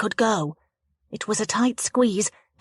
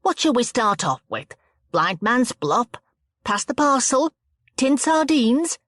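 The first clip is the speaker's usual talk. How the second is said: eager hostess; 5 semitones higher, 3 dB louder than usual. A narrator's reading. Hostess offers party games.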